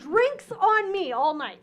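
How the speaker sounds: high, loud, slow proclamation; big-spender boast. Retold or imitated. A casino winner buys drinks for friends, in a high, loud, slow announcement. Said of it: "then I was like".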